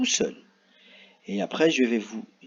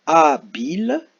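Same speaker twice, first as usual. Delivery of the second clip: loud questioning rise on A bill; trying out an option; 3 semitones higher, 9 dB louder than usual. Shown as a demonstration. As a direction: test the sound out loud, rising like a question. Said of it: "Est-ce qu'on va écrire".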